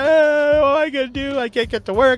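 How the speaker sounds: hammed-up despair, a flood of worries; mock panic. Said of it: "you're sitting there going".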